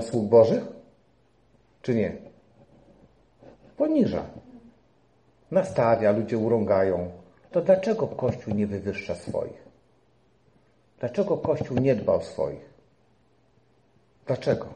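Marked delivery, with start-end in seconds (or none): none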